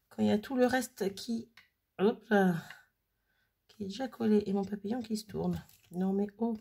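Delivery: tense talk with breath held; strained, concentrating, holding breath. Real, not acted. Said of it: "Il faut que je respire, hein. J'arrête de respirer".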